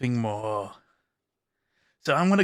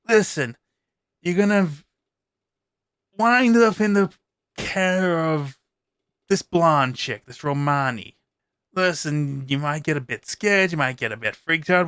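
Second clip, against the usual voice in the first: lightly voiced vampire, urgent and pushy; a hint of a vampire leaning in to brief you; vampire giving orders. Vampire instructing the player character, lightly voiced and urgent.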